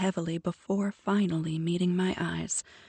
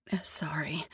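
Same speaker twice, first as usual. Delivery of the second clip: muttered apology. Acted. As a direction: mumble it under your breath. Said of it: "I muttered".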